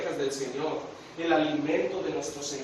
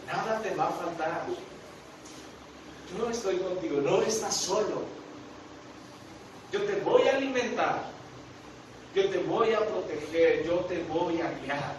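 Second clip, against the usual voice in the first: gentle reassurance; 4 dB quieter than usual. Acted. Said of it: "Jesús te está diciendo".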